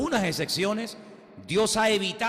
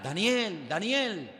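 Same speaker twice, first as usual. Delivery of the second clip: calling out; 4 semitones higher, much slower than usual. Retold or imitated. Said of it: "se pone a gritar".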